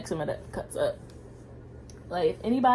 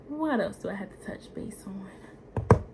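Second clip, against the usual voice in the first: whisper. Real, not acted. Thinking aloud to herself.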